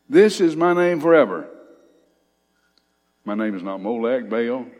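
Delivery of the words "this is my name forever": booming proclamation. Acted. Preacher reading God's proclamation.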